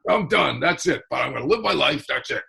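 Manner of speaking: imitating dad's Boston accent. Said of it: "And he talked like this".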